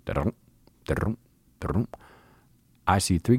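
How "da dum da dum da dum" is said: bear's gallop beat voiced as da-dum; gallop sounds. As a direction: thump out the gallop rhythm. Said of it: "It's going".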